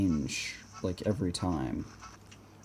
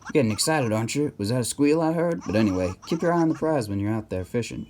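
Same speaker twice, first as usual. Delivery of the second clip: put-on lively southern-accented game character; 2 semitones higher than usual. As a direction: read it as a southern mayor pitching a contest. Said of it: "giving him a very southern accent".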